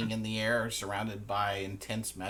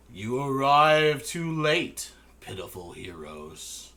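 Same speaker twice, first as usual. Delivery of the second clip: Umban's voice; 4 semitones higher, 8 dB louder, slower than usual. Acted. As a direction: proclaim it grandly, then sneer. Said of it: "Umban ... says".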